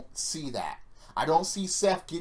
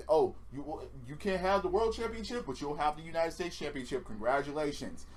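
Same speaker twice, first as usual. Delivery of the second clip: softer, patronizing mock offer; mock consolation; 5 dB quieter than usual. WWE placating a wrestler with a lesser title, mock consoling. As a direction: hand over a consolation prize, mockingly. Mimics WWE's offer to the fans.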